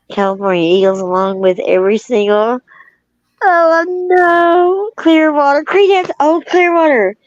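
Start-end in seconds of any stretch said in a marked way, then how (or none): 3.4-7.1 high, eager recall, name bursting out; light up as the name comes back; sudden excited recall of a band name; excited remembering. Real, not acted.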